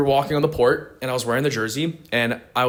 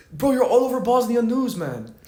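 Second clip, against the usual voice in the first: mock excited friend; 11 semitones higher than usual. Friend announces viral news.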